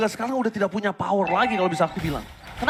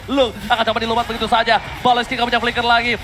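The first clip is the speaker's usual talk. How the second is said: esports caster; 3 semitones higher, 6 dB louder, faster than usual. Real, not acted. Hyped play-by-play call.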